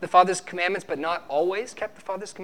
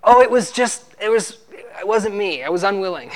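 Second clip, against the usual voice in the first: a preacher mocking the congregation's excuses in a whiny voice; 4 dB louder than usual. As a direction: play a sinner wriggling out of blame. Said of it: "you try to justify your sin in that way".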